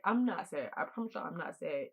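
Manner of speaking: ordinary talk, nothing marked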